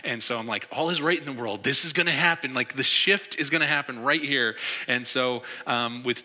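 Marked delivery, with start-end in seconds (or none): 0.7-4.5 slightly raised, mildly excited hope; a fan daring to believe; hopeful excitement. Retold or imitated. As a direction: retell it with growing confidence that the tide is turning. Retelling his rising hope during game.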